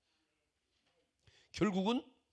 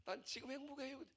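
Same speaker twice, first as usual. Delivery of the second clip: much softer, higher, gently content; calm soft reply; 5 semitones higher, 13 dB quieter than usual. Retold or imitated. Pastor replays his own soft, content answer. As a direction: answer softly as if nothing could bother you. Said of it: "내가".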